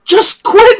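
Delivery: high yelled taunt; yelling from the side. Acted. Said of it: "yelling at you from the side".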